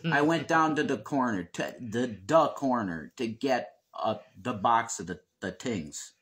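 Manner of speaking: coal-region Pennsylvania accent, "the" as duh; anthracite brogue. Shown as a demonstration. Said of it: "That's how they said".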